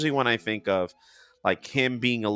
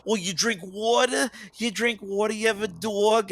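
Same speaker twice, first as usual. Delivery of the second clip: much higher teasing voice mocking my accent; mocking locals; 12 semitones higher than usual. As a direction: mimic people teasing your water. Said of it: "everybody made fun of".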